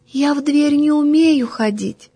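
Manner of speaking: thin little girl's voice, lightly voiced; tiny thin voice. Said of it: "тоненьким-тоненьким голоском отвечает". (тоненький детский голосок)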